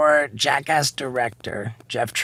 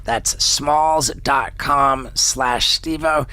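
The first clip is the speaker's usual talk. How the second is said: upbeat sponsor read, slowing on the offer. Acted. Host pitching a cat food deal to listeners, ad read. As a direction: sell the deal, lean on the code.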